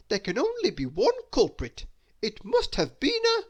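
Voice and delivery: a flustered know-it-all cut short; rising panic, cut off mid-word; Mister Clever alarmed. Acted.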